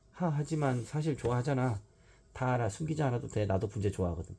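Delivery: 더듬으며 높게 천천히 설득하듯; 조심스레 달래는 아이처럼; hesitant child. Acted. 신영이 머뭇거리며 설득. (머뭇거리는 아이 목소리)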